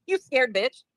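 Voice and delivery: drawn-out taunt, slow, through a laugh. Real, not acted. Streamer repeating the taunt at a rival, slow and laughing. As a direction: stretch each word and laugh at her.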